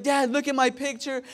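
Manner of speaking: high-pitched little boy imitation; Beckham. Younger son showing dad his picture, imitated eager child. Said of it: "Beckham's like".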